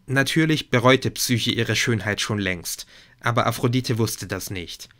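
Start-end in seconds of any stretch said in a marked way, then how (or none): none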